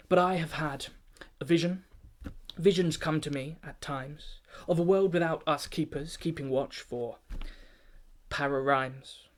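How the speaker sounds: a lightly pompous performance-poem delivery; pompous formal address. Acted. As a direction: address the keepers like a self-important chairman. Keeper tells of his vision.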